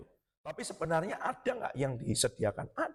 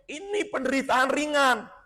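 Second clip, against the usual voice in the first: high, raised-voice declaration; seruan lantang; 8 semitones higher, 4 dB louder than usual. Acted. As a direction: proclaim it as the apostle's bold claim. Memerankan ucapan Paulus dengan lantang. (berseru lantang dengan nada tinggi)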